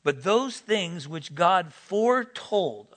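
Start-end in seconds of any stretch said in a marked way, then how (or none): 1.7-2.9 "foretold" drawn out and emphasized; "foretold" slowed for weight; stress on foretold. Real, not acted. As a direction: underline "foretold" with the voice. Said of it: "underline that word".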